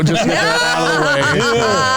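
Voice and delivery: giggling through the words; laughing, drawn out and high. Real, not acted. Laughing while setting up clip.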